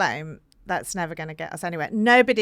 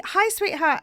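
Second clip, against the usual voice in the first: high, mock sweet coo; 10 semitones higher than usual. Speaker contrasting greetings for girls, high coo. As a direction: lightly coo it like to a little girl. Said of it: "you see".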